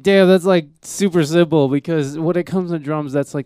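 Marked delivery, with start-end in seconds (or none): 0.0-1.7 impressed exclamation. Retold or imitated. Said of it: "I was just like".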